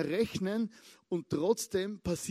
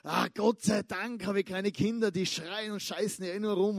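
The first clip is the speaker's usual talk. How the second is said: relieved mock sigh. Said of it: "hat sich gedacht".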